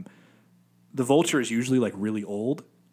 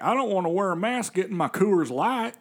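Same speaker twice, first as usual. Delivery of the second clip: redneck voice; 8 semitones higher than usual. Retold or imitated. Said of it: "He's like".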